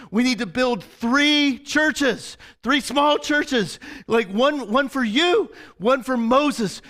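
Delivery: high-pitched, slow, emphatic proposal; hammed-up eager disciple; overeager planning. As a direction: pitch a silly plan with great eagerness. Acting out flustered Peter's eager plan.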